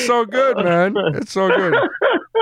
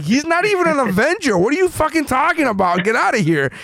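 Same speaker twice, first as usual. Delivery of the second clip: high scoffing Avengers; mock Avengers scoff; 10 semitones higher than usual. Avengers kicking Moon Knight out, high scoffing. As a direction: laugh it off and shoo him away. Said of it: "they're like".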